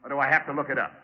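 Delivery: bait him, keep pushing; taunting. Acted. Detective taunts the suspect.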